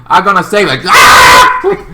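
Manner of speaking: high shouted vow, then a yell; heroic shout. Retold or imitated. Green Boy rushing in to save him, shouting. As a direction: yell it like a hero charging in. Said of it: "He's kind of thing".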